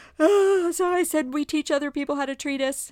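tearful, crying delivery. Retelling what was said to a husband after a shower: retelling own words while crying. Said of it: "so back to my crying".

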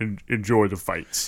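mimicked cool, deep voice. Retelling what a guard at a door said: imitating a cool deep voice. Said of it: "He had a real cool, deep voice".

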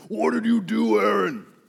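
put-on gravelly booming old man voice. Dramatizing Moses confronting Aaron, gravelly booming Moses voice. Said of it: "gravelly voices booming".

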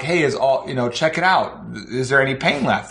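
plain

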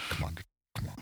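muttering under breath. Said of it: "under my breath".

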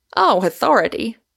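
light, breezy, offhand. Asked by Pym about authority, Moon answers lightly. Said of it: "said Moon lightly".

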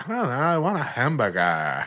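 put-on valley girl voice, southern accent, swooping pitch. Imitating a girl overheard talking, in a southern Valley Girl voice. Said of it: "it's Valley Girl, but it's southern".

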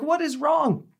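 clumsy, very high-pitched, put-on Hebrew accent. Retelling what an elderly Hebrew woman asked: imitating her Hebrew accent. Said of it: "I'm terrible with accents".

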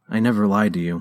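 quietly spoken. Accused by a boy of lying to them, she responds quietly. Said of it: "she responded quietly".

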